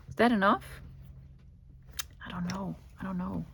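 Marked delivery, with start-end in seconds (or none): 2.3-3.5 whisper. Real, not acted. Whispering to herself.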